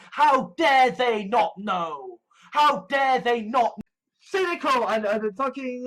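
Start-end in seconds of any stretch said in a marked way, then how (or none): 0.1-3.7 slow first, with a slightly raised voice; imitated indignation, leaning on each word; bitter anger. Speaker voices anger at those who don't know, bitter. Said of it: "show such bitterness and anger at".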